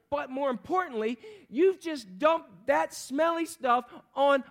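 hammed-up self-righteous rant; mock indignant guest. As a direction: play the offended host berating her. Preacher voicing indignant guest.

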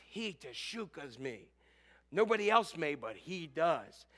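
slow, low and very soft assurance; quiet confidence. Acted. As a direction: state it softly, with settled confidence. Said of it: "now she says with confidence".

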